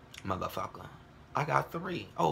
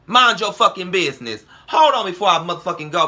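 angry rant; 3 semitones higher, 6 dB louder than usual. Real, not acted.

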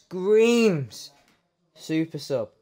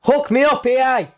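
excited plea; 9 semitones higher, 9 dB louder than usual. Real, not acted. Begging the game for a pack.

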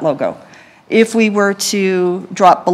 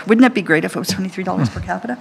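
laughing quip; much faster than usual. Real, not acted. Joking about her own slip.

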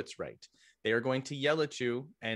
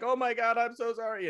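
panicked recruit; 10 semitones higher, 4 dB louder than usual. Retold or imitated. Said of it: "be like".

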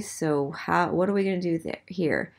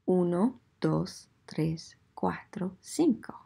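hushed whispered countdown; whispering the count from uno to cuatro; 4 dB quieter than usual. Shown as a demonstration. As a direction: whisper the count so students can think.

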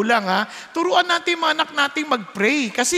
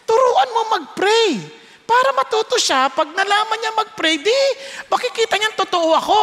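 voice of the Lord; 9 semitones higher than usual. Retold or imitated. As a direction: speak as God correcting him, firm. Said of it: "Sabi niya".

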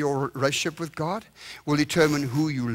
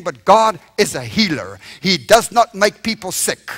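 forceful declaration; 6 dB louder than usual. Acted. Preacher declares healing with force.

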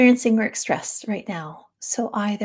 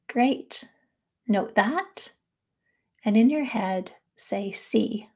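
guided practice with long pauses between phrases; guided mindfulness. Real, not acted. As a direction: lead them through it, unhurried and spacious.

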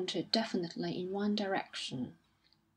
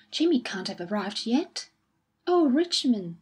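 anxious alarm; 3 semitones higher, 7 dB louder than usual. A narrator's reading. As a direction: let the worry break out on Richmond. Wife startled by telegram.

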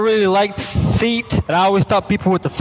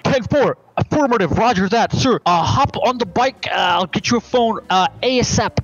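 higher, dim-witted private answering his sergeant; eager soldier; 4 semitones higher than usual. Acted. Soldier with brain injury answers his drill sergeant, eager and higher. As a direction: play a dopey recruit reporting for duty.

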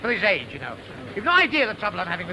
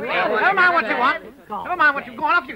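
stern scolding; 6 semitones higher than usual. Acted. Ordering boys to bed.

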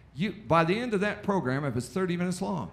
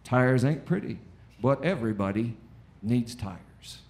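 mock commercial voice; 4 semitones lower than usual. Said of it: "it's just over and over".

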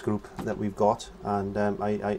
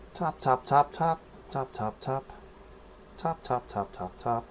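rhythmic tapping; 3 semitones higher, 5 dB quieter than usual. Shown as a demonstration. Chants along with his brush dabs.

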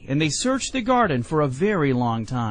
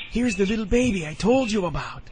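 lightly voiced snake, pitched higher; sly snake aside; 6 semitones higher than usual. A narrator's reading. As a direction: pass on a secret as the snake, fully voiced. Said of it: "whispered Hooty into his ear".

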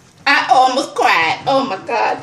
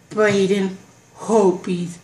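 awed whoa; 3 semitones lower, much slower than usual. Real, not acted. Showing viewers the autograph, slow awed whoa. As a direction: marvel at the autograph.

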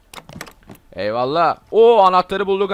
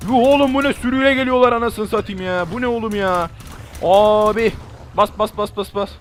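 high, loud disbelief at the horde; overwhelmed yelling; shocked shouting; 5 semitones higher, 3 dB louder than usual. Real, not acted. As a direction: gasp out a stunned cry then urge on. Huge horde coming.

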